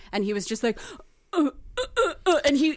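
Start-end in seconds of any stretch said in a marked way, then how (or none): 1.3-2.4 higher-pitched mock grunts in short bursts; stammering grunts. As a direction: sputter wordlessly, imitating him. Imitates crackhead left without words.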